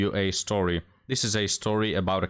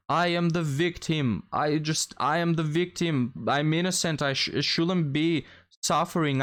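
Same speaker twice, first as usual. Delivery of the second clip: higher-pitched whiny victim voice; high mocking whine; 6 semitones higher than usual. Mocking women on his videos, high whiny voice. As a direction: sneer it like a self-pitying complainer.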